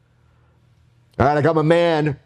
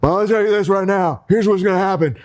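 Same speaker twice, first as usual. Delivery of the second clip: higher, hyped-up ring promo; wrestling promo; 4 semitones higher than usual. Pretend. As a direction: finish the promo to pump up the fans. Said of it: "I'm gonna bring it home right now".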